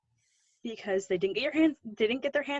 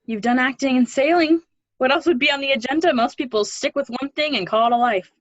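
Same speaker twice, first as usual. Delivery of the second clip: animated; 6 dB louder than usual. Acted. Animated teasing about his life.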